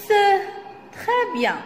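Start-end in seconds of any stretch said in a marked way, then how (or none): 0.1-0.2 "se" said alone as one blended syllable; syllable demo. Shown as a demonstration. Teacher showing how S and E are pronounced, syllable demo. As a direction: model "se" with the French schwa for learners. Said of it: "se prononce".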